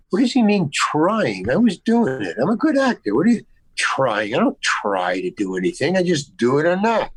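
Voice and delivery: retold offended actor, emphatic swings in pitch; indignant attitude. Insulted actor bristling at the director's remark, indignant. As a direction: bristle at the word trying. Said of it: "an attitude right".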